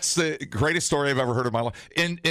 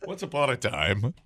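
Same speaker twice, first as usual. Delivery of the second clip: hushed creepy legend telling; 3 semitones lower than usual. Pretend. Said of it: "retell this story like a Christmas poem".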